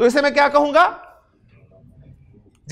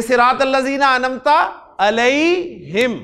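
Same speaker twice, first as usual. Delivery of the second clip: slow Quranic recitation; 2 semitones higher, slower than usual. Shown as a demonstration. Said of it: "सूरतुल फातिहा में आप पढ़ते हैं".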